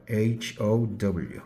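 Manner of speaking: letter by letter, slow; slow spelling demo; spelled out slowly. Shown as a demonstration. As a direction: spell each letter separately for class. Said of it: "How 어떻게 적어요?".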